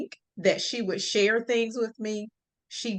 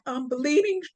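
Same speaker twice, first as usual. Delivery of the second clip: panicked cry; 10 semitones higher than usual. Retold or imitated. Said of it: "And I was like".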